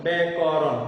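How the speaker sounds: ব্যাকরণ in three measured parts, ব্যা-ক-রণ; ব্যা-ক-রণ, sounded out for a class; separate syllables. Shown as a demonstration. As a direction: keep the syllables of ব্যাকরণ apart. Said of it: "একসাথে উচ্চারণ করা সম্ভব নয়".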